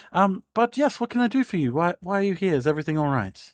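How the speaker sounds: a theatrical aristocrat overjoyed to see a guest; gushing lady. Acted. Lady Torrell continues.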